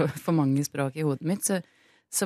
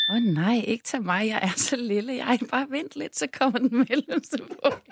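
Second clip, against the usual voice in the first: lightly higher little goat voice; small goat voice; 6 semitones higher than usual. Acted. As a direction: plead like a tiny goat. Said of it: "Den var så fin i stemmen".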